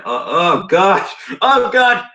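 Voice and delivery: high cries of dismay, rising further; real appalled outcry. Real, not acted. Reader recoiling from crude fiction, appalled outcry.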